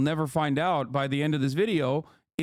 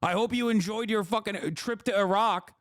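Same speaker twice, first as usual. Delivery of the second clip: higher pitched mock rage at a veteran; hammed-up screaming insults; imitating a hateful leftist yelling; mock furious tirade; 5 semitones higher than usual. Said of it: "you're like".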